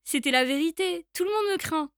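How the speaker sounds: lightly voiced bold mouse; a hint of a bragging mouse; triumphant mouse. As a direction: turn the tables on the monster. Mouse threatens the gruffalo.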